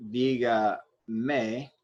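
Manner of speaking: "diga me" drawn out slowly, DI stressed; slow teaching demo of "diga me", weight on "di". Shown as a demonstration. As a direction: sound out "diga me" syllable by syllable, slowly. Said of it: "This is still the stressed syllable".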